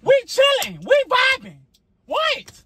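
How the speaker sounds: high, loud exasperated yell; real shout of frustration, pitch way up. Real, not acted. Wife yells at husband during the argument, exasperated shout. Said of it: "Why are you yelling?".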